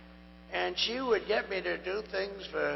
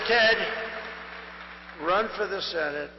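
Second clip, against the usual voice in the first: retold urging call. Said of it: "And I said".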